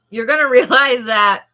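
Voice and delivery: talking through a yawn; words stretched by a yawn. Real, not acted. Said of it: "I'm gonna yawn".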